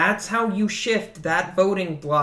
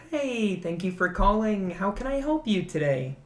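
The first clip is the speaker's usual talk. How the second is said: a bit higher, bright phone-greeting lilt; customer service voice; 5 semitones higher than usual. Shown as a demonstration. Showing friends the work voice, slightly higher customer service. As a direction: lightly lift into a polite phone voice. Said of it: "my customer service voice is really high-pitched".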